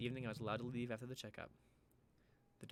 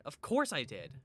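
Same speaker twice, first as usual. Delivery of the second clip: loud, higher burst of frustration; exasperated snap; 3 semitones higher, 9 dB louder, slower than usual. Acted. Lizzie answering her friend, exasperated and loud. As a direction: bite back at the question.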